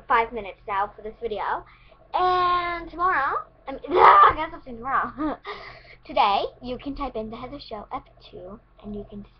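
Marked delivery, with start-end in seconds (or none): 2.1-6.1 laughing. Real, not acted. Laughing while signing off.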